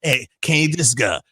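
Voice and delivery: hint of a low pleading voice; low caller voice. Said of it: "he got that voice".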